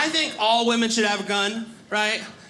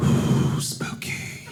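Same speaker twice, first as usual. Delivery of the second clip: mock spooky; much slower than usual. Mocking ghost story.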